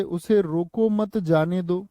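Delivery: slow "उसे रोको मत", then "जाने दो"; group मत with रोको, then finish on जाने दो; pause after मत. Shown as a demonstration. Teacher reads the line written below, break after मत. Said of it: "विराम चिन्ह अलग होगा".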